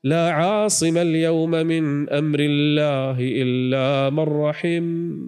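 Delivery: slow, grave warning to the son; solemn father. Acted. Noah answering his son, solemn and slow. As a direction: drag out the words like a final verdict.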